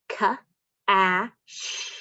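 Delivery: "Wa-ile" split into onset and rime; sounding out. Shown as a demonstration. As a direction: segment the word for the kids. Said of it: "let's try this one".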